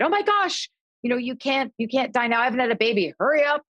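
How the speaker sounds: high pitched, half-joking urgent plea; urgent pleading. Retold or imitated. Granddaughter pleads with grandfather to wait for baby, urgent. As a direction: beg him to hang on, playfully frantic.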